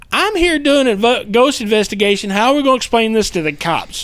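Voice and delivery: high-pitched retold dismay; worried inner thought. Investigator wondering how to explain it to cops, high-pitched dismay. Acting out his racing thoughts.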